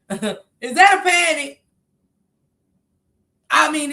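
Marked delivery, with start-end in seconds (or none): 0.1-1.6 laughing disbelief. Real, not acted. Mocking the calm caller.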